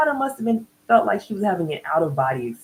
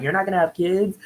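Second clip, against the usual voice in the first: mildly incredulous echo, pitched higher; 4 semitones higher than usual. Retold or imitated. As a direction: question it back in mock disbelief. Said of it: "they're just incredulous".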